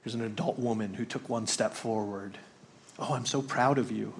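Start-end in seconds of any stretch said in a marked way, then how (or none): 3.0-4.1 patronising sing-song praise; condescending. Shown as a demonstration. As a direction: talk down to her with mock praise. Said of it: "That would have felt very condescending".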